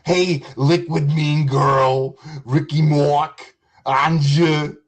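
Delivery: slow, drawn-out sugary roll call of names; mock sweet greeting. Mocking a streamer by sweetly greeting chatters slowly. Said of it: "I'll be like".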